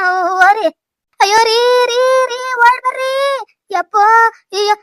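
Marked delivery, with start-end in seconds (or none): 1.2-4.1 alarmed high-pitched calling; calling for help. Acted. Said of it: "ನಮ್ ಬೆಂಕಿಲತ್ತಲ್ಲ ಕೂಗ್ತಿರೋದು". 4.6-4.8 slow, drawn-out wails of alarm; acted fearful lament; frightened wailing. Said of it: "ನಂಗ್ ಭಯ ಆಯ್ತೈತೆ ಭಯ".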